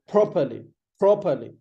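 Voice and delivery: properly as PROP-uh-lee; "properly" strong first, weak endings; pushed P. Shown as a demonstration. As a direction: push the start of properly hard. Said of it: "You have to push it".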